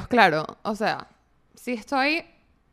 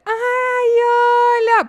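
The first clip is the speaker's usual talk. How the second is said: high, sweet mock greeting from mom; mom greeting on FaceTime; 12 semitones higher, 7 dB louder, slower than usual. Mother cooing at the phone, sweet and high. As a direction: chirp it high like a mother on a call. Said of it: "Y dice".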